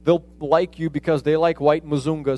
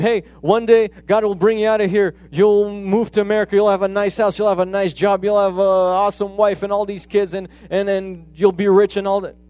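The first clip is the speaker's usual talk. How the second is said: higher and louder, a mock upbeat promise of riches; false promise; 3 semitones higher, 4 dB louder than usual. Preacher to orphan, a mock cheerful prosperity pitch. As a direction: sell him the prosperity dream, hammed-up. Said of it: "I could have told him".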